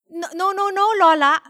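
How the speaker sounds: put-on high, urgent child protest; pleading little girl breaking in; interrupting. A narrator's reading. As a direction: cut in with rapid-fire noes. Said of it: "Feliz interrupted".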